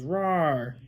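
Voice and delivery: drawn-out, gentle "roar"; a tame storybook roar; mild lion roar. Acted. Parent showing what the lion says, mild lion roar. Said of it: "The lion says".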